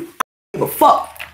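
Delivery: whispered low, almost to herself; muttered under breath. Real, not acted. Talking to herself before the camera, whispered under breath. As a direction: breathe the words under your breath first.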